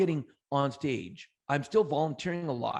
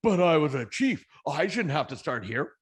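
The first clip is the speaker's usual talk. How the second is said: entitled protest; 5 dB louder than usual. Retold or imitated. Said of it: "if I would have sat there and went".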